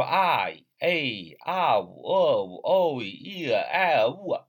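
"I、A、啊呜、呃呜" each glided as one drawn-out vowel blend; vowel combinations. Shown as a demonstration. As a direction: demonstrate each pair like "哦一" as a gliding diphthong. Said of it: "也可以排列组合".

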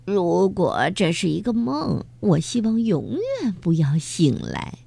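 contented. Acted. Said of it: "满足地说".

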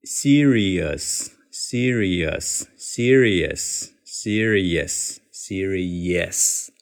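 serious with the "ri" and "us" running into "yes"; linked serious. Shown as a demonstration. Teacher drills the linked native serious. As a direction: drill serious several times, linking into "see-ree-yes". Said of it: "我们一起来试一下".

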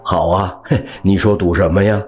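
快语速傻呵呵地笑着答应; 像个没心眼的老实人憨笑着应下; 憨傻地答应. Acted. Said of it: "憨哥傻乎乎的答应说". (傻乎乎地笑着答应)

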